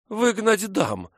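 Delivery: high, slow, huffy outrage; indignant snort. A narrator's reading. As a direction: huff it out indignantly. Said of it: "фыркнула она".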